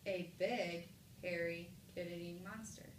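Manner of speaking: even, subdued statement, dropping on "monster"; period reading. Shown as a demonstration. Teacher reads the same words with a period, even low statement. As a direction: read it flatly and close on a low "monster". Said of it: "do the same thing we just did".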